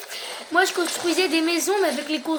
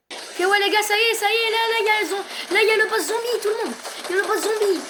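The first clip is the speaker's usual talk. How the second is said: excited; 5 semitones higher than usual. Real, not acted. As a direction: hype the boss arrival. Boss zombie appears.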